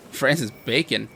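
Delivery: Francis Bacon? as an amused, doubtful question; amused disbelief. Real, not acted. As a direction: repeat the name with a bemused rise. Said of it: "What an amazing name".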